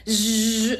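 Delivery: buzzing "zzz" of a nail drill; imitated tool buzz. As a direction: mimic an electric file with a short buzz.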